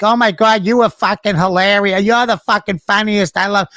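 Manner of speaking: high-pitched retold gushing; imitated star-struck praise, high and effusive; gushing fan.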